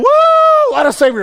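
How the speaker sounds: high, loud whoop of celebration; mock cheering. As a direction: whoop and cheer like a thrilled fan. Mock cheering the disciples did not give.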